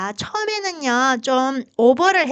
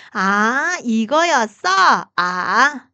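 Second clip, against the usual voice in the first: realizing aha; 6 dB louder, much slower than usual. Retold or imitated. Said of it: "그게 바로 삼 성이라고".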